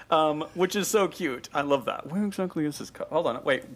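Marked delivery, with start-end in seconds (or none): 2.1-3.1 put-on prim old lady voice. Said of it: "Missus Slocum says that".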